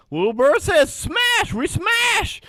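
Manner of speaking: very high, shouted emu squawk. Acted. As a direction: chant it like a dumb brute emu. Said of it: "and says".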